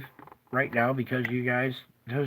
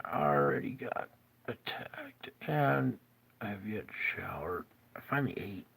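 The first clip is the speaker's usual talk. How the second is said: unvoiced tired whisper; worn-out whisper about being attacked; weary whisper; 3 semitones lower, 6 dB quieter than usual. Real, not acted. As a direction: drop to a spent whisper. Complaining of illness, whispers.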